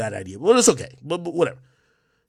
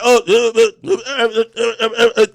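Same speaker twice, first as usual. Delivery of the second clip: mocking stammer. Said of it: "Or are you gonna be like".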